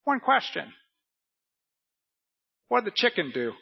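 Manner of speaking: high-pitched talking bird; parrot voice. Acted. Parrot asking its owner about the chicken, high bird voice. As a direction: put on a parrot's voice for the question. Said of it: "Then the parrot goes".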